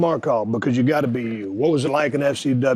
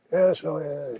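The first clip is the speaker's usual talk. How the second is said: mock deadpan; 5 dB quieter than usual. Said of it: "the way you talk about it is like".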